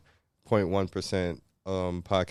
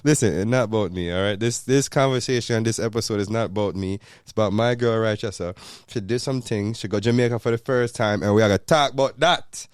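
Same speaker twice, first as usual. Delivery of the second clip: emphatic Jamaican patois; 3 dB louder than usual. Acted. Host introducing fiancee's trip, emphatic Jamaican patois. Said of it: "the whole episode in patois".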